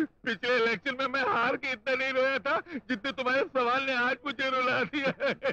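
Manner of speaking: a hint of hammed-up sobbing in the voice; lightly faked tearful complaint; mock weeping. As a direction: pretend to be moved to tears. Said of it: "आप खामों का क्यों रो रहे हैं?".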